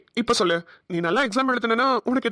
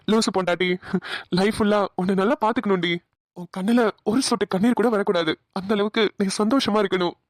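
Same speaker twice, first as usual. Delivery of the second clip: slightly lowered, loving murmur to himself; affectionate, understated inner monologue; tender vow. Acted. Husband's private loving vow about wife.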